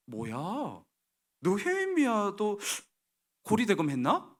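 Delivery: drawn-out, doubtful questioning; mock bewilderment; puzzled reader. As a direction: wonder aloud in suspicion, rising high.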